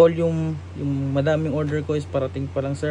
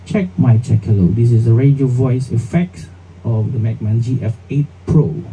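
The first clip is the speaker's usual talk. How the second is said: radio voice; 2 semitones lower, 4 dB louder than usual. Shown as a demonstration. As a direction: voice through a tinny radio filter. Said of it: "Radio voice tayo".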